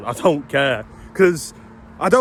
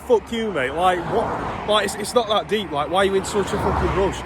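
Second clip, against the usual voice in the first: retold angry rant; 4 semitones higher than usual. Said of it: "I got so triggered, I was like".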